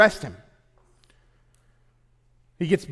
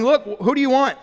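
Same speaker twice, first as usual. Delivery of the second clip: higher and louder, pressing; exasperated Pilate; 7 semitones higher, 4 dB louder than usual. Real, not acted. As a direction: pass the buck with a raised voice. Excited retelling of Pilate.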